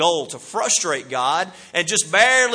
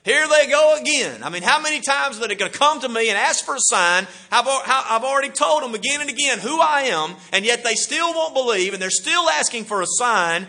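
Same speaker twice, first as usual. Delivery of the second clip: exasperated Jesus; 5 semitones higher than usual. Retold or imitated. Jesus' frustrated inner thoughts voiced.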